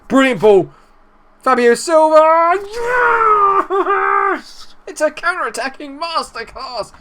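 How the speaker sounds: high, loud yelling at the goal; excited celebration. Real, not acted. Gamer celebrating his striker's goal, excited yell. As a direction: cheer the counter-attack goal.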